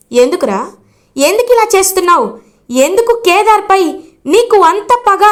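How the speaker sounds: a father demanding answers from his son, rising in pitch; angry father. Acted. Father confronts son over slap. (కోపంగా నిలదీసే తండ్రి)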